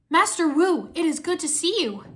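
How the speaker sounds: high, loud happy greeting; glad greeting. A narrator's reading. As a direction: greet a beloved master eagerly. Zane greets his master at reunion.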